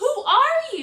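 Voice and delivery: startled, shocked cry, shrill, very high and loud. Showing children how the princess asks who he is: shocked. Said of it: "Can you show me how shocked the princess is?".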